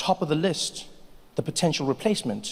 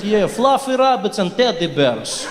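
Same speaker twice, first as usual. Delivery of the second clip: put-on slow Russian accent making sweet words sound like threats; menacing Russian accent; 6 dB louder, slower than usual. Russian saying nice things, in a menacing Russian accent. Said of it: "it still sounds menacing and dangerous".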